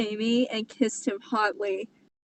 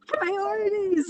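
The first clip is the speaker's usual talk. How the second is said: laughing scold; 11 semitones higher than usual. Real, not acted. Scolding the character.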